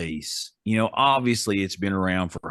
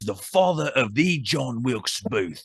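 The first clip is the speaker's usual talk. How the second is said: higher-pitched, hammed-up Australian accent; put-on Australian accent; 4 semitones higher than usual. Co-host retells the ghost story in a mock Australian accent. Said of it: "go with an Australian accent".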